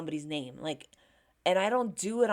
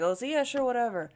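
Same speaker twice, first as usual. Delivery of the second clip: higher-pitched mock indifference; careless dismissal; 5 semitones higher, 4 dB louder, faster than usual. Her old self not trying with names, mock careless. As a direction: imitate brushing someone off. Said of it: "I could care less".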